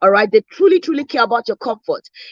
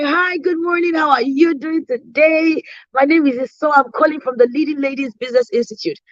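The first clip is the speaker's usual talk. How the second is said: bright, friendly phone hello, pitched higher at the start; cheerful sales call greeting; 3 semitones higher than usual. Retold or imitated. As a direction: greet a stranger like an old friend. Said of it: "because I'm talking like that".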